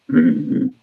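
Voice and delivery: short, loud growled mm-hmm; imitated growl. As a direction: growl a grudging yes, mimicking him. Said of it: "He's giving me a growl".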